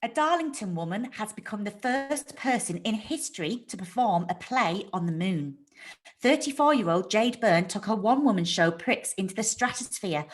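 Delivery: steady, careful newsreader read; news voice. Shown as a demonstration. Jade reading a mock bulletin on the moon play. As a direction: deliver it as a radio bulletin. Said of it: "your news voice is similar to your podcast voice".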